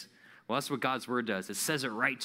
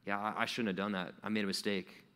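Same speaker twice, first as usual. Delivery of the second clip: soft, lower, guilty admission; guilty sigh; 5 semitones lower, 4 dB quieter than usual. Retold or imitated. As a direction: mumble it like you got caught. Guilty confession after lying.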